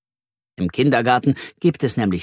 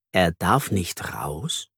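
dismayed disbelief; 6 semitones lower, 5 dB quieter, much slower than usual. A narrator's reading. Narrated dismay, soft and slow.

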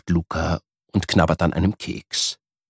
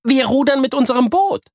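higher, eager proud plan; eager girl; 4 dB louder than usual. Acted. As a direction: announce the boat triumphantly. Miri's idea.

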